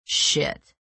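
whispered curse; muttered. A narrator's reading. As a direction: mutter the curse under breath. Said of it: "Chubbs muttered".

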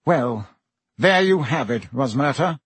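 thickly. Acted. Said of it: "said Fudge thickly".

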